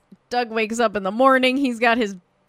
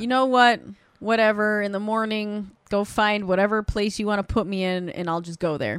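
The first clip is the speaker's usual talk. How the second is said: defeated; 3 semitones lower than usual. Retold or imitated. Defeated dad agreeing to go to a home, imitated resignation. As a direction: give up, voice dropping away. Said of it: "the dad is kind of defeated".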